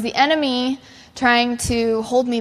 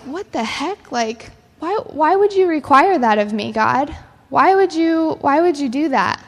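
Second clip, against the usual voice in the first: mock exasperation, pushed up in pitch; indignant questioning; 4 semitones higher than usual. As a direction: voice an exasperated believer demanding an explanation. Voices a believer questioning God.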